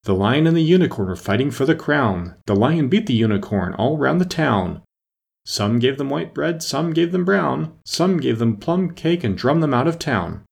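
sing-song recital of a rhyme, pitched a little up; reciting an old song. A narrator's reading. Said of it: "repeating to herself as she ran the words of the old song".

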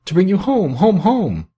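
put-on high, gleeful child's exclamation; excited little girl. A narrator's reading. Little sister clapping her hands for her brother, gleeful. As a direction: build the joy on each repeat, pitched high. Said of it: "clapping her tiny hands".

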